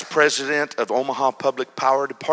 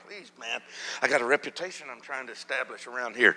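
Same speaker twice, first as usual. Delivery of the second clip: pleading under breath; 6 dB quieter, faster than usual. Retold or imitated. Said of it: "I'm like".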